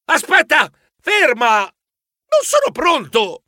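loud high cry to wait; shouting. Acted. Mouse shouts at partner heading to the lift. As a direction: call after her, slowing down at the end. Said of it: "Gridai alla mia socia".

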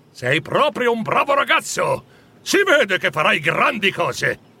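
exultant praise. Acted. Scrooge praising the boy for his news, exultant. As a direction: praise with jubilant enthusiasm. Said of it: "esultò Scrooge".

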